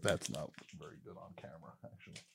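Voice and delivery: whispered afterthought to himself; whispered aside. Real, not acted. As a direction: murmur it to yourself. Muttered self-criticism.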